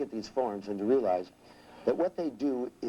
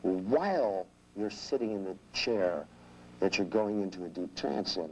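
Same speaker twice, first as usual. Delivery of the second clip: hypnotic suggestion; 2 semitones lower, slower than usual. Shown as a demonstration. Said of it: "Because if I say".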